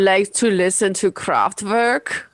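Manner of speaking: put-on slow, deep German-accented drone; Werner Herzog impression. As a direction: play Herzog, slow and grave. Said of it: "Werner Herzog impersonation".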